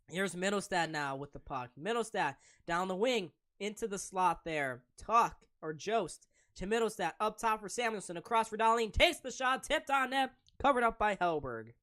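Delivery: play-by-play. Acted. Live hockey play-by-play.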